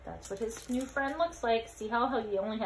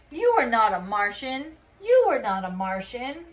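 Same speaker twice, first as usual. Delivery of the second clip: louder, stressing you; loud insistence; 7 dB louder than usual. Acted. Scapito loudly telling the alien the truth. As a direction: insist firmly, pushing on you.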